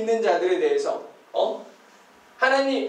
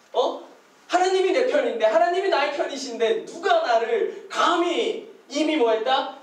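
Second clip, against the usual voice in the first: ordinary talk, nothing marked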